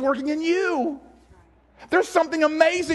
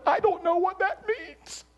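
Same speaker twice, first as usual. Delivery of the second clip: high, slow, tearful wail, held back; imitated bawling; 6 semitones higher, 4 dB quieter than usual. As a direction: act out a wife crying in confusion. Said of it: "she's bawling 'cause she's like".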